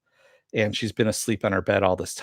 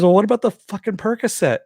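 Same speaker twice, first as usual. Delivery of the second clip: high-pitched, insistent retold question; mock confrontation, pitched well up; acted incredulous challenge; 11 semitones higher, 4 dB louder than usual. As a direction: act out demanding an explanation. Acts out her challenging him.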